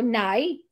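"now" turned into "Nay"; northern NOW. Shown as a demonstration. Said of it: "that's how they do it up the north".

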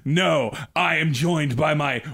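lightly hammed-up master of ceremonies; grand announcer. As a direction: proclaim the intro like a showman. Grand game master intro bit.

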